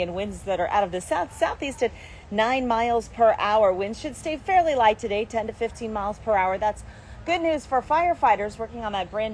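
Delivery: lively on-air forecaster delivery; TV weather forecast. Real, not acted. Forecaster to Arizona morning viewers, live weather-report delivery. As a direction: present the forecast, punching key words.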